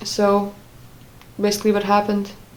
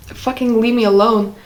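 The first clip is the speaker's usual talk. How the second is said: mildly heated retelling of a plea; retold exasperation; 2 semitones higher, 3 dB louder than usual. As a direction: push back in a retold argument, a touch angry. Retold quarrel with ex.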